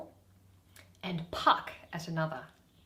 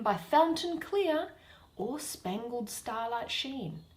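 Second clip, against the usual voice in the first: Puck; 3 semitones higher, 5 dB louder than usual. Acted. Reading Puck's lines.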